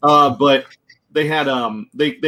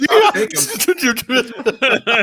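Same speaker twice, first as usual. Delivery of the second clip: eager shout; 10 semitones higher, much slower than usual. Real, not acted.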